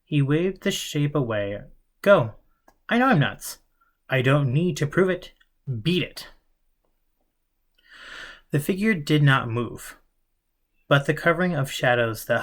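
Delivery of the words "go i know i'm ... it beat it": agitated. Acted. Eric shooing away hallucination.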